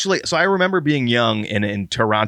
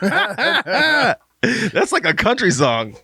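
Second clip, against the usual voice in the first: laughing; 10 semitones higher, much slower than usual. Real, not acted. Laughing at the sung parody.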